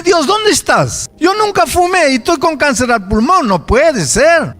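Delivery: high, impassioned cry to God; anguished protest. Acted. Believer protesting a lung cancer diagnosis to God, anguished protest.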